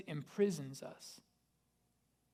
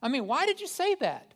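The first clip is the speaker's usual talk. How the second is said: high, loud self-scolding; exasperated inner critic, raised and sharp; scolding myself; 8 semitones higher, 8 dB louder than usual. Retold or imitated. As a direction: snap at yourself like a frustrated parent. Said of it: "It's just like".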